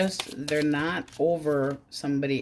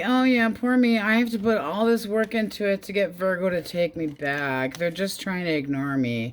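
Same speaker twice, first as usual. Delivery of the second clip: high, loud whiny poor me; mock self-pity; 4 semitones higher, 4 dB louder than usual. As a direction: whine it like a sulky ex fishing for pity. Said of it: "They're like".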